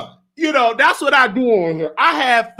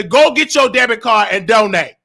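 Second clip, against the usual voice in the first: mock psychic reply; 4 dB louder than usual. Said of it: "I'ma say".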